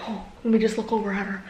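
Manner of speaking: impersonation voice. Retold or imitated. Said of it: "same impersonation voice".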